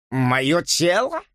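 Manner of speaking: slow, high offended exclamation; stung, he cries out; exclaiming. Acted. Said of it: "воскликнул он". (возмущённый возглас)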